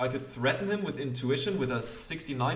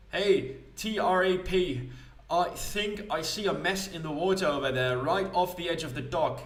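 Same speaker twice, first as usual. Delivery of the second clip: slightly raised, acted call with a drawn-out start; calling to the automaton; 5 semitones higher than usual. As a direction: send the machine off, lightly in character. Character calls automaton to a mess.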